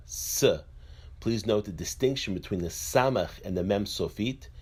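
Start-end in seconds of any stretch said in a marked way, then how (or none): 0.1-0.4 "S" as a hissed "suh"; letter sound S. Shown as a demonstration. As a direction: sound out "S", not the letter name. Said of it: "The Samech is pronounced as".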